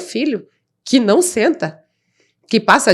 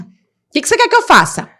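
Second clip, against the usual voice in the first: high, pleading outburst at the therapist; exasperated retort; 9 semitones higher, 3 dB louder, faster than usual. Retold or imitated. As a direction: throw the question back, much higher. (a therapeuta ouve a mãe exasperada, voz bem mais aguda)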